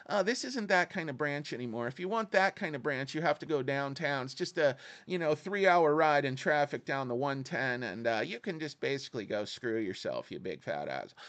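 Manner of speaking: soft, polite clerk turning rude; big banker voice. Retold or imitated. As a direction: sweetly tell the customer to get lost. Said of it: "doing my big banker voice".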